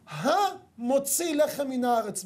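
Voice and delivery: המוציא לחם מן הארץ drawn out very slowly, voice near tears; slow blessing. Shown as a demonstration. Preacher reciting the bread blessing, slow and tearful. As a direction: linger on every word of the blessing, almost weeping. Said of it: "אנחנו מברכים".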